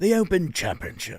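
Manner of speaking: gentle, posh British accent. Asked to say it in a very British way, reading a title in a posh British accent. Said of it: "like a posh British accent?".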